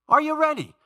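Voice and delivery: high, loud shout to the congregation; loud rallying call. Real, not acted. Preacher rousing church to memorize a verse, loud rallying call.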